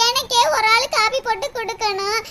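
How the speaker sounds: low weepy whine ending in sobs; hammed-up tearful grumbling; tearful complaint. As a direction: moan about chores, then break down. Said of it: "அழுகுறத நிறுத்திட்டு".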